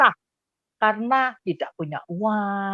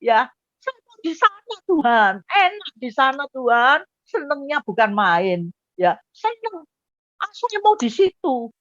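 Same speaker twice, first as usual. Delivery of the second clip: higher-pitched, mock tearful pleading; retold crying; 3 semitones higher than usual. Asking God why he must return, acted tearful protest. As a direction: imitate wailing a complaint to God. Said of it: "saya nangis".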